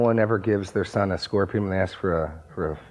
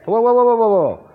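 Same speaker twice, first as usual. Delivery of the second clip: loud high whoa, whoa; 12 semitones higher, 8 dB louder than usual. Real, not acted. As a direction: call out sharply to stop someone. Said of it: "You said, "Whoa".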